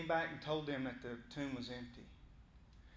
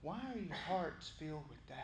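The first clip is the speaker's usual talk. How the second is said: softer, tender asking of why are your hearts filled with doubt; Jesus gently asking his doubting disciples; gentle question; 6 dB quieter than usual. Shown as a demonstration. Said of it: "just asking to center you back to him".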